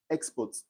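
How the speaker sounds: "export" as a noun, first syllable stressed. Shown as a demonstration. Teacher repeating the noun example, export stressed on EX. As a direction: put the weight on EX in "export". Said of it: "The syllable is on the X".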